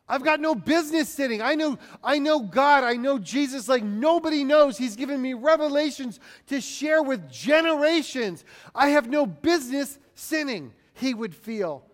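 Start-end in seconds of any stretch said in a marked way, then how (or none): 0.1-10.7 higher, insistent voice; heightened acted conviction; impassioned self-reproach. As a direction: press each claim home with fervour. Acts out Paul's self-reproach.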